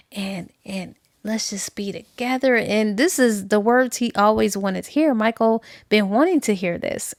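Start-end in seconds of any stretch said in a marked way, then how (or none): 0.1-2.5 tender whisper. Retold or imitated. Lorraine pleading with Michael.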